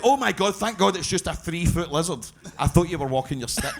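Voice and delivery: laughing. Retold or imitated. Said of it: "She was like".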